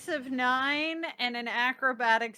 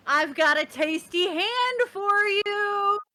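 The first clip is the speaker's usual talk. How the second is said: coaxing a dragon; 5 semitones higher, slower than usual. Acted. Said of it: "waving it in the air going".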